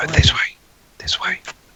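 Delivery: airy whispered voice. Poking a head out to guide two companions: whispering. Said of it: "just whisper to those two guys".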